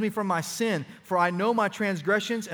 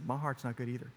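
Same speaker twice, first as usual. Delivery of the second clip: the same confession said softer and closer; softer tender repeat; 5 semitones lower, 9 dB quieter than usual. Retold or imitated. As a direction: lean in and say it softly again. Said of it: "and I said".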